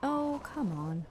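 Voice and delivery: slow drawn-out groan of frustration; exasperated. Real, not acted. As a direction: drag out the complaint. Misses grabbing item.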